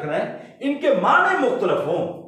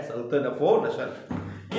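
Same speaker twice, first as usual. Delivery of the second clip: सनत लफ व नसर spelled out very slowly, each word apart and softer; slow dictation; 7 semitones lower, 6 dB quieter, much slower than usual. Shown as a demonstration. Teacher repeating the term for students to write down, very slow and soft. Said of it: "ये सनत लफ व नसर है".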